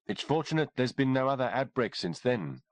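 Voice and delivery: calm educated woman, lightly done; lightly voiced doctor. Doctor Kimberly remarks on the outbreak, lightly voiced woman.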